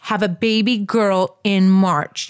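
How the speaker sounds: put-on "Have a baby girl in March" said slowly, weighty; slow recalled prophecy. Recalling the clairvoyant's words to viewers, slow and solemn. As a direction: savor each word of the prophecy. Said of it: "The woman said".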